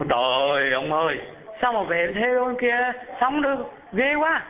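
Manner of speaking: high, shocked refusal; startled third wife. Acted. Third wife recoiling at following him to the afterlife, high-pitched. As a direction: recoil at the idea.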